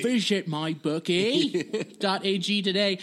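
slow, lapsing Scottish impersonation; slow, faded Scottish accent; Connery accent attempt. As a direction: try for Sean Connery and lose the accent. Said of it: "I don't know where that accent went".

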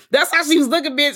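high, loud, through laughter; laughing. Real, not acted. Host tickled by her own retelling, laughing. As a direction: crack up while saying it.

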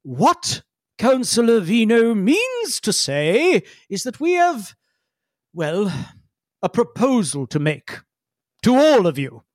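slow diplomatic correction; smooth it over slowly like a diplomat; smoothing Feledrin. Acted. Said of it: "immediately interjects, says".

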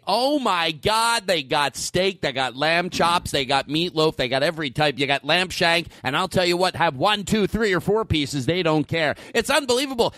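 lightly voiced hype announcer; buffet announcer impression. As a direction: sell the buffet like a local ad pitchman. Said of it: "try to do his, his tone".

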